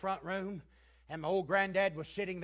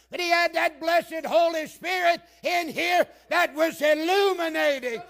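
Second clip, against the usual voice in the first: high, loud, sustained fervour; full-force preaching; 9 semitones higher, 11 dB louder than usual. Real, not acted. Preacher praising his granddad's Spirit-given understanding, full-force preaching. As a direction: proclaim it urgently, nearly shouting throughout.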